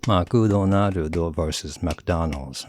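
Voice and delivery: McDonald's said slowly, first as "makudonarudo", then in English; slow syllable contrast. Shown as a demonstration. Contrasting the syllables for listeners. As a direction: draw out both versions slowly. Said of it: "number of syllables that's different".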